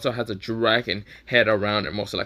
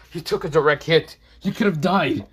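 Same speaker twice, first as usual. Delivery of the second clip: raised, louder protest; upset scolding; 5 semitones higher, 5 dB louder than usual. Acted. Mikey upset that Draken nearly died, loud protest. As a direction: scold a hurt friend in alarm.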